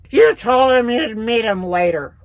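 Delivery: slow, lightly voiced accusing mother. A hint of the mother accusing her daughter, slowly.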